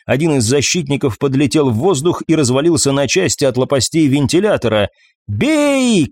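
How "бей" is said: high, drawn-out shout; shouted order. A narrator's reading. Салана orders her crew to fire, forgetting comms are blocked, shouting. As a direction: cry out a sudden attack order. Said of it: "крикнула Салана".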